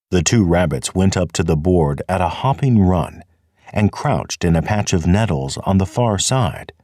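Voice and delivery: ordinary delivery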